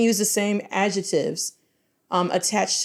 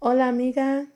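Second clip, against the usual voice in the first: first try at a character voice; 4 semitones higher than usual. Pretend. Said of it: "That sounds horrible".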